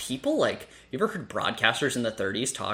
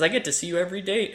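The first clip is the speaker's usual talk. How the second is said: imitating a line; 8 semitones higher, faster than usual. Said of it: "she says".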